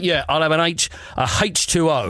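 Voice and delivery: casual common British accent, haitch; loose, down-to-earth British speech; non-posh British. Shown as a demonstration. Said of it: "they're not usually very posh".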